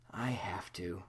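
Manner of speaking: tired whisper. Acted. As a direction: breathe it out wearily. Buffy tired, going to sleep.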